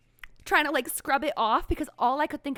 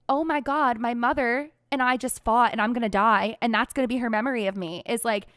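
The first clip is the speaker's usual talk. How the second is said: louder, rushed panicky inner voice ending in a laugh; patient retelling her panic before being wheeled into surgery, louder mock panic; retold panic; 4 dB louder than usual. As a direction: replay the spiral of dread, half laughing at herself.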